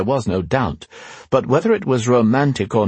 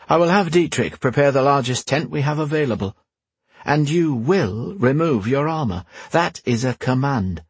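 higher-pitched, measured royal order; commanding queen; 5 semitones higher than usual. Acted. Queen ordering knight to remove armour, playfully commanding. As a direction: lay down the order in the queen's lifted voice.

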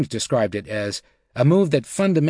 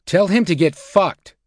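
raised, high-pitched exasperation; angry outburst; 7 semitones higher, 5 dB louder than usual. A narrator's reading. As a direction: fire it back louder, at the end of your patience. Banker angrily rebuffs Geithner's call.

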